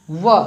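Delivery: व sounded alone, lip against teeth; व sound demo. Shown as a demonstration. Teacher models the व sound for students to copy. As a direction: give a clean isolated व from teeth and lip. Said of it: "व बोल के देखिए".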